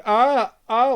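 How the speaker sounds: strained mock groan; stiff groaning. Describing the monster, mimics his stuck groan. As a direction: imitate a voiceless monster straining. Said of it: "going, like that, like he can't speak".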